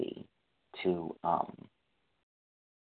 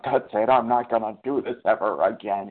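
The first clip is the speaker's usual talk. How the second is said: louder put-on vow after a binge; mock resolve; 5 dB louder than usual. The day after a binge, a louder mock vow of quitting. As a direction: play the overconfident promise. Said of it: "the next day you're like".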